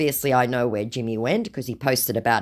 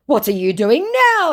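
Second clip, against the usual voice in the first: mock scammer voice; 12 semitones higher, 6 dB louder than usual. Woman reading the scammer's message aloud, in a high mock voice. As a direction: ham up the creepy flattery.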